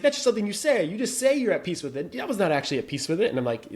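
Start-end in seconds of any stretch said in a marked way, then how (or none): 0.0-2.1 exasperated Grace. Retold or imitated. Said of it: "He's like".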